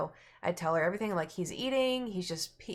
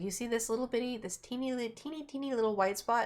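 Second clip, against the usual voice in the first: high voice for something tiny; lightly pitched up, pointing out a tiny detail; imitated vet; 5 semitones higher than usual. Vet showing owner a teeny spot, high-pitched.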